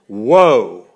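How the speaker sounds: a single loud proclaimed outcry; booming cry of woe. Acted. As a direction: thunder the warning. Preacher's warning cry.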